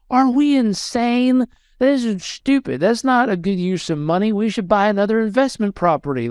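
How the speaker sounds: alarmed disbelief. Retold or imitated. Wife wakes up regretting it.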